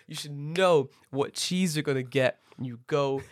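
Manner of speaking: slow, emphatic imitation of annoyance; mock-angry rant. Friend retold lecturing a slow customer, mock anger. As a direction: spell it out with mock exasperation. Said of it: "he was so mad".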